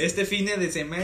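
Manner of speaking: "fine" said with an English-sounding e ending; joke pronunciation. Pretend. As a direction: stretch "fine" with a final e sound. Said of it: "a todo ponle ex".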